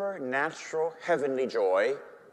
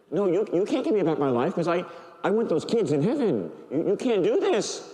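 higher, stammering objection; upset protest; 4 semitones higher than usual. Retold or imitated. Priest protests to the Lord over their deal, upset. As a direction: argue back, worked up and indignant. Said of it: "I started to get upset".

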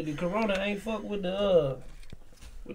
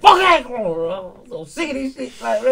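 shouting at the virus; loud rant; 6 semitones higher, 11 dB louder than usual. Real, not acted. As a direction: yell it out fed up. Fired-up rant.

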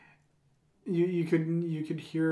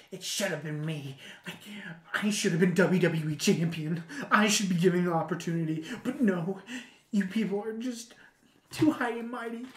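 toned-down imitation of an aggrieved wrestler; mock grievance, held back from shouting; Dolph Ziggler. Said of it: "his whole shtick was being".

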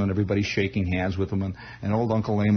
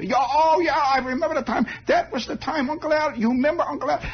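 put-on much higher, eager old-man voice with a German touch; excited old German uncle. Uncle Emil reminiscing to his nephew, high excited German-accented old man. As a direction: gush over old times in a thin, high old voice. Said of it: "they all had this vague German accent".

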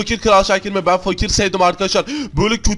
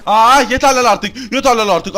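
louder, slow angry cry of enough; fed-up outburst; 3 semitones higher, 4 dB louder, slower than usual. Acted. Player losing patience with the rich king, slow angry outburst. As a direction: explode in frustration, dragging it out.

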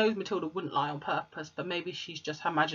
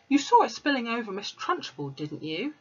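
put-on higher little girl voice, pleading; Matilda; 5 semitones higher than usual. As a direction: plead your innocence as a child.

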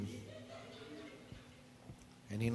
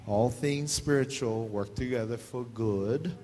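slow corrected reading; 3 semitones lower, slower than usual. Shown as a demonstration. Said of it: "in spiritual speak".

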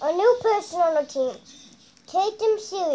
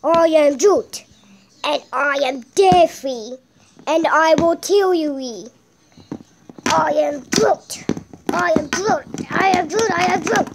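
Groot; 3 dB louder than usual. Pretend. Plays Groot threatening in battle.

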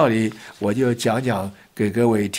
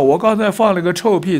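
loud confession; 6 semitones higher than usual. Retold or imitated. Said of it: "他就很大声地说".

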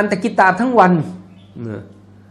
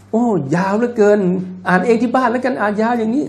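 imitated complaint from the pews; mock grumble at a long prayer; grumbling congregant; 3 semitones higher than usual. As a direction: act out a worshipper moaning aloud. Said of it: "แล้วก็ออกเสียงแบบ".

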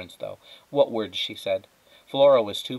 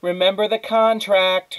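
higher, loud stern reminder; mother shouting; 10 semitones higher, 9 dB louder than usual. A narrator's reading. Mother shouting a reminder to Flora, loud and stern. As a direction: bellow the warning up. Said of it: "her mother shouted".

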